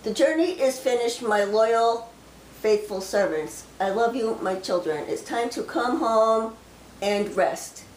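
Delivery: slow, solemn delivery of a prophecy; prophecy reading. Acted. Sharing a received prophecy with viewers, slow and solemn. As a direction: speak the words as if the Lord speaks through you.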